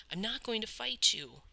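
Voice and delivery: put-on boy shouting he won't fight back; shouted. A narrator's reading. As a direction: shout it out over the kicks. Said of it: "Cole shouted".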